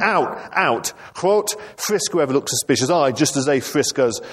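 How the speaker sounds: high-pitched mock shouting; shouted orders.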